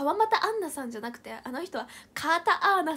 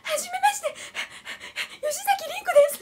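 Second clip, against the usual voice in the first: very high squeaky imitation; 13 semitones higher, 6 dB louder than usual. Imitating friend again, higher.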